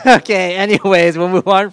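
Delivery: laughing through the word okay. Real, not acted. A pastor laughing off a gaffe, laughing okay. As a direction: chuckle it out, flustered.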